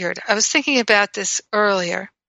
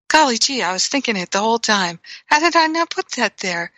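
hammed-up dismay. Retold own realization, self-mocking.

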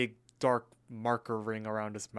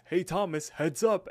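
higher, lightly called warning; imitated call-out; 6 semitones higher, 4 dB louder than usual. Muscle Man tossing Thomas a soda, mock calling out. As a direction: call out quickly to someone about to catch.

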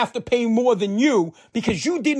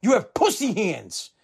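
a hint of a stern father, slow; gruff dad; slower than usual. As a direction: lean in and say it slowly like a stern dad. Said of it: "pulled me real close and goes".

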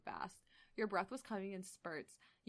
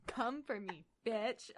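mock sultry repeat; much slower than usual. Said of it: "that gets me going so hard".

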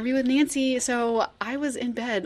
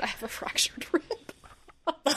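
cracked rib; 5 semitones higher, 4 dB quieter, much slower than usual. Real, not acted. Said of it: "Don't make me laugh too hard".

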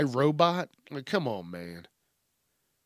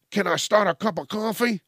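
higher-pitched, over-eager goofy robot; goofy, pestering robot voice; goofy happy robot; 7 semitones higher, 3 dB louder than usual. Acted. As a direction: offer it like an annoyingly cheery helper. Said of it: "so goofy that".

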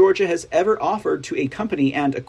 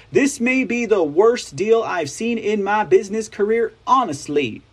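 fake Southern accent; 3 semitones higher than usual. Reading a senator's quote in a mild mock Southern accent. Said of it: "I started doing the fake, uh, Clinton Kamala, um, s-, Southern accent".

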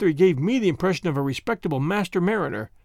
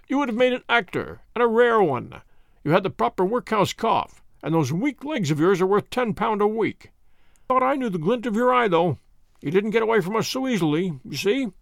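jovial inspector; 3 semitones higher than usual. Acted. Jones praises Holmes's acting.

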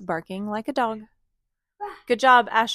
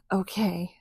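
quiet resolve; 3 dB quieter than usual. Acted. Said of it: "took a deep breath".

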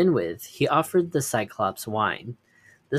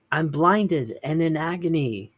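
high, loud pained roar; 6 semitones higher, 4 dB louder than usual. Acted. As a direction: bellow it in agony. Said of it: "roared Polyphemus".

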